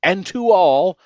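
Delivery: loud, high call ringing out into the night; exclaimed farewell. Acted. Saint Nick calling goodbye to everyone as he drives away, loud and high. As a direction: call it out as the sleigh flies off. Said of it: "I heard him exclaim".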